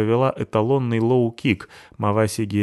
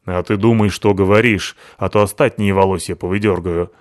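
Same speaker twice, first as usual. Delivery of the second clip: threatening; 6 dB louder than usual. Acted. Натаха угрожает Абуте.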